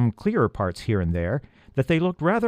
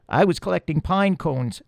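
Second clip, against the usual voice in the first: high, tiny mouse voice; little field mouse chattering; squeaky mouse voice; 7 semitones higher than usual. A narrator's reading. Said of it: "added the second".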